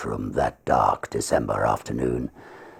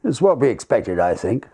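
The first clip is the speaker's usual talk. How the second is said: a hint of a calm older lawyer, higher; lightly voiced barrister; 9 semitones higher, 4 dB louder than usual. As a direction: speak it plainly, without emotion. Barrister quoted in story.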